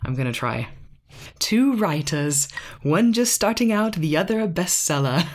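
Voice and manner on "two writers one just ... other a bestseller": put-on British accent. Reading a podcast blurb to her husband in a mock British accent. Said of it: "have to be read with a British accent".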